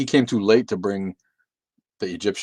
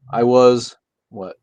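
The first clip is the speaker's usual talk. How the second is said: ordinary talk, nothing marked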